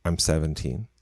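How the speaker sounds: low mutter under the breath. Retold or imitated. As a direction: mutter it half to yourself. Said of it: "Ricky mutters under his breath".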